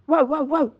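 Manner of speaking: high, loud barking woofs; barking dog. A narrator's reading. Greyhound barking at the peasant's meat, loud high barks. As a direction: bark like a greyhound. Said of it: "and barked".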